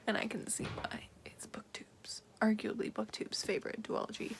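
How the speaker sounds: soft unvoiced whisper. Real, not acted. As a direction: whisper so nobody wakes. Whispering at night.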